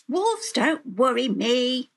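lightly voiced storybook girl; unworried little girl. A narrator's reading. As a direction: shrug it off in a light child's voice. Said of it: "said Red Riding Hood".

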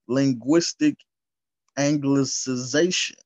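loud, deliberate, word by word; slow and careful. Real, not acted. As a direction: sound out a hard term slowly, firmly. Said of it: "I had to say that slow".

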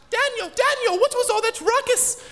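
very high alarmed maid voice; fussy maid. Retold or imitated. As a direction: shriek it like a flustered housemaid. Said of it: "My maid comes running in".

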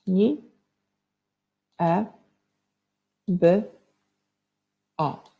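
"Ni, e, by, o" each sound said alone with pauses; teacher segmenting sounds; sounding out phonemes. Shown as a demonstration. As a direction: sound out every phoneme of "Niebo" slowly. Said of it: "Wybrzmiewamy wszystkie głoski".

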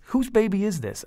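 high, loud startled father; alarmed question. A narrator's reading. Dad confronts his daughters, startled and loud. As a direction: blurt it out in shock. Dad demands answers from girls.

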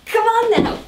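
high, loud grunting plea. Real, not acted. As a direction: push the words out with effort. Struggling into tight jeans.

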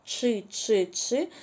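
each syllable spaced out slowly; slow, deliberate syllables; slow syllable drill. Shown as a demonstration. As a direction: spell the rhyme out slowly for children. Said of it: "я читаю рядочок".

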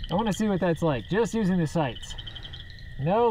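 muffled behind face mask; speaking inside respirator; through a gas mask. Real, not acted. Seen 5: Speaker wears gas mask over face while talking and shooting.

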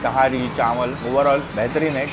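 talking while chewing; speaking between bites; mouth full chewing. Real, not acted. Seen 0: Took a bite before; jaw and cheeks chewing while speaking.

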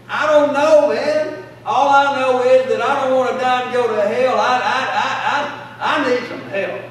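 half-sobbing plea for help, re-enacted; retold crying plea. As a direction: relive the tearful desperation with a stammer. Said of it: "and I'm crying".

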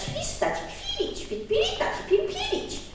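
high chirping bird voice; squeaky high bird twitter; birdlike chirping. Acted. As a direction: chirp the words like a small bird. Imitating bird chirps in list.

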